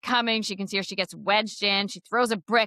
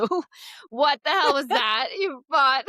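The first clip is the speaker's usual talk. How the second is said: higher-pitched, hammed-up indignant retort; mock outrage; 6 semitones higher, 4 dB louder, slower than usual. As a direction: act out an exasperated outburst through amusement. Acted angry retort after the ordeal.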